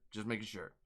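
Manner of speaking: Dark Cameron voice. Shown as a demonstration. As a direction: answer as his darker alter ego. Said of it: "are you talking to Dark Cameron".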